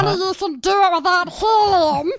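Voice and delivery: high, fast squeaky helium voice. Retold or imitated. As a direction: squeak it out like you inhaled helium. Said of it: "I just started talking in the helium voice".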